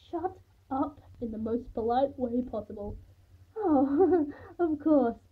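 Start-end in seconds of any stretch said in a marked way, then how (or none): 3.6-5.2 high, loud, laughing apology; fussy mother laughing it off; flustered laugh. A narrator's reading. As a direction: gush with a little laugh. Gushing mother lets go of narrator.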